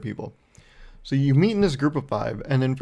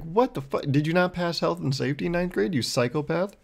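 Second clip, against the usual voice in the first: retold disbelief, voice jumping higher; mock indignation; 4 semitones higher than usual. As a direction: act appalled at the professor's recklessness. Acted indignant reply to professor.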